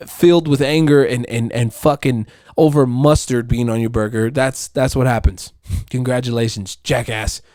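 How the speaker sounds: sarcastic scolding of the customer; mocking crowd. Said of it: "everybody was like".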